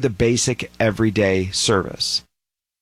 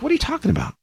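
much higher incredulous squeal; mock baffled outrage; much faster than usual. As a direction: sound stunned and offended. Britons baffled by EU rules.

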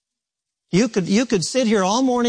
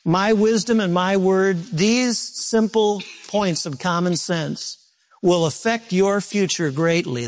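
slow solemn quote; slower than usual. Retold or imitated. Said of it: "the Lord simply says".

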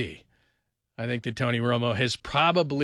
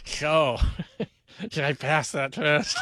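laughing mock question; much slower than usual. Imitating Romo at stop.

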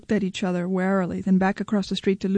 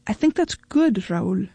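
trying to be supportive. A narrator's reading. Wife answering her husband's confession, trying to be supportive. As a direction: offer strained approval. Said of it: "trying desperately to be supportive".

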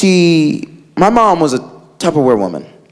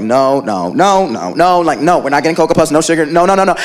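stern mom; 6 semitones lower than usual. Retold or imitated. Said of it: "My mom would be like".

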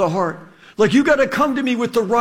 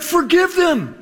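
"Forgive them" said higher and quick; forgiving; 6 semitones higher than usual. Retold or imitated. Jesus answering his mockers, a higher, lighter voice. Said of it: "Jesus is like".

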